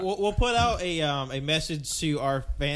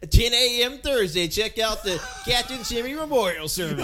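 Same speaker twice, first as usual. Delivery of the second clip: announcer voice; 6 semitones higher, 4 dB louder than usual. Pretend. Mock announcement of memorial podcast.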